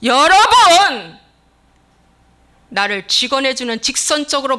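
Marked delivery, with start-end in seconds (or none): 0.0-1.2 high, drawn-out shout to the congregation; booming, stretched address; loud calling out. Real, not acted. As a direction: call the crowd at full volume.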